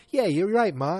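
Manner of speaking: loud, high eager agreement; mock-excited son-in-law; Michael Stivick. Host as son-in-law agreeing with Ma, excited impression. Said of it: "He's like".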